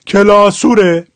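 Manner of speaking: slow Shirazi کلاسوره, ending in u-re; Shirazi accent. Shown as a demonstration. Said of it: "حال شیرازیش". (کلاسوره آهسته با لهجهٔ شیرازی)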